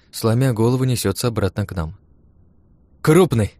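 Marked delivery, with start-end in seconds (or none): 3.0-3.5 high, loud happy cry; joyful exclamation. Acted. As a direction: burst out with delight. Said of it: "радостно воскликнула она". (радостный возглас)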